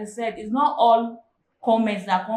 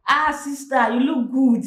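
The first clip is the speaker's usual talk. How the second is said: mildly mocking praise, slightly raised; sarcastic compliment; 3 semitones higher, slower than usual. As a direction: imitate a schoolmate's insincere compliment. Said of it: "Like a sarcasm".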